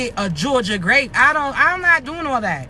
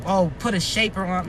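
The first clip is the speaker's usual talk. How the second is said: mock voice; 7 semitones lower, 4 dB quieter than usual. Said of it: "Talking about".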